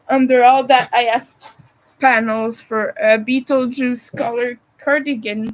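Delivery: talking through hiccups; holding back hiccups mid-sentence; suppressing hiccups. Real, not acted. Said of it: "I have hiccups right now".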